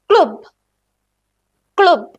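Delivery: ക്ലബ് with a k sound, "kloob"; German pronunciation. Shown as a demonstration. Teacher models German ക്ലബ് to the class. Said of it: "ഇവിടെയും ക sound".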